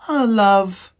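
very high, slow, dreamy squeak; lovestruck little mouse. Acted. Despereaux asking his brother about love, very high and dreamy. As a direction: float the question like he's in a daze.

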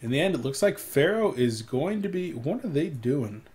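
hiccuping mid-sentence; talking through hiccups. Real, not acted. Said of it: "I've got the hiccups again".

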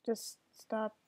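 breathy whispered stop. Real, not acted. Defeated gamer whispers stop to attackers. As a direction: barely whisper it.

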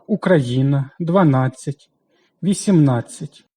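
Україна, дванадцять, вісімнадцять said slowly, second-to-last syllable hit hard; наголос на передостанньому складі; stress on the second-to-last syllable. Shown as a demonstration. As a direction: lean on the syllable before the last. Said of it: "Передостанній у словах".

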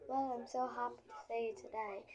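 lightly put-on British accent; a pretend touch of British. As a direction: try out a playful British greeting. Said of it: "It has a British accent today".

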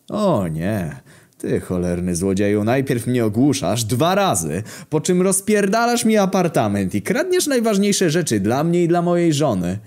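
acted aggrieved outburst; indignant tirade. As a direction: pitch climbing high as the grievances pile up. Furious victim lists the thief's crimes.

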